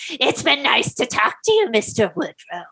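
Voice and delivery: lightly put-on creepy farewell; a hint of a sinister stranger; creepy visitor. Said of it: "Indrid ended the conversation by saying".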